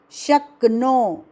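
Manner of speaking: शक्नो slowed, half k into no; slow syllable. Shown as a demonstration. Teacher slows the word for learners, slow. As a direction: stretch शक्नो slowly. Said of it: "उसको नो".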